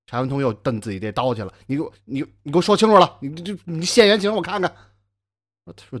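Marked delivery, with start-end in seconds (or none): 1.7-4.7 louder, blustering demand; nervous demand. Acted. Scared scholar demanding the stranger explain himself, loud bluster. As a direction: bluster to hide the fear.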